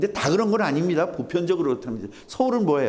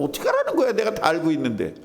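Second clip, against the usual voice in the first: mock indignant retort; 6 semitones higher than usual. Preacher acting someone told they are wrong, indignant retort. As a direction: imitate someone bristling at being corrected. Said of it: "이런 거".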